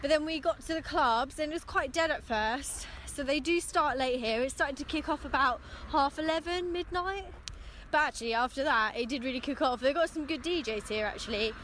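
tipsy and a bit slurred; talking after a few drinks. Real, not acted. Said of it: "Oh, I hate my drunk voice".

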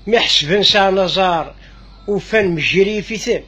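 slow, measured verse reading; deliberate, drawn-out verse with pauses; poem recitation. Acted. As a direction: recite the poem slowly, line by line.

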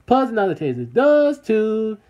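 loud, high rallying call; called-out slogan. Shown as a demonstration. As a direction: call it out loudly to the viewers, pitched high. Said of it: "We gonna say".

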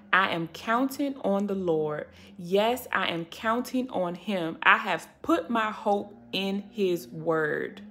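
quiet, unhurried Bible reading; scripture reading. Acted. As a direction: read the verse slowly and gently. Reads scripture aloud.

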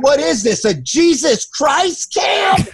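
high, slow scoffing yell; hammed-up sneer at the campfire; mock outraged shout. Mocking camp leaders at campfire.

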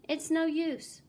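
high, loud despairing cry; cried out. A narrator's reading. Mayor to fleeing citizens, loud despairing cry. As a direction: cry it out hopelessly. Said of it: "cried the mayor".

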